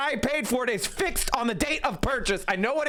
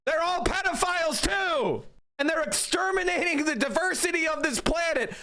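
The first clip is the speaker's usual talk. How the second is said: mock rage; 4 semitones higher than usual. Commentator's mock rant at liberals.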